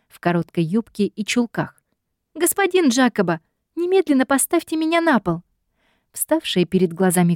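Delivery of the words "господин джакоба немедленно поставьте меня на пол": put-on high, indignant young woman; heroine's indignant demand. A narrator's reading.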